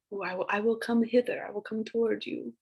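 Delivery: soft, lightly theatrical vow; fancy old-English voice. Shown as a demonstration. Teacher demos hither for the class in a soft, mildly fancy voice. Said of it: "I make it sound fancy when I say it".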